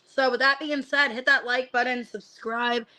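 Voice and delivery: talking through heartburn; slight discomfort from heartburn. Real, not acted. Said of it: "Sorry guys, I got really bad heartburn".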